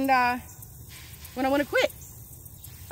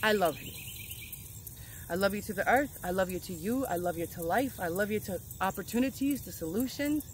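gentle affirmation; 4 semitones lower, 4 dB quieter than usual. Shown as a demonstration. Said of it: "and say".

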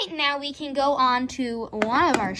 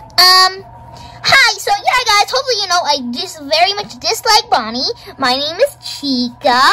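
higher, chatty character voice; pitched-up, self-important cook; sassy Chica character; 5 semitones higher, 4 dB louder than usual. Acted. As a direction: introduce yourself high and gushing. Plays Chica introducing herself.

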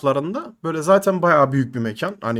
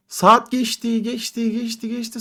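drawn-out fading repetition; 5 semitones higher, slower than usual. Retold or imitated. Telling listeners how the night dragged on, slow fading repetition. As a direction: let the hours drag by, fading away.

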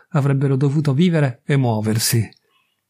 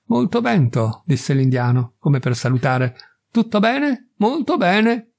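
much higher voice for the laconic visitor; a terse stranger voiced higher; Indian visitor; 4 semitones higher than usual. The Indian visitor greets the couple curtly, much higher voice.

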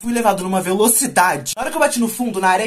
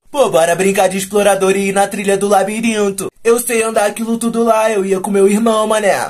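lightly voiced know-it-all, a bit louder; know-it-all friend; 6 dB louder than usual. Friend proposing a trail game to the gang, lightly mocked know-it-all. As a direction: imitate a boastful pal pitching an idea. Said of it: "o meu amigo sabichão falou assim".

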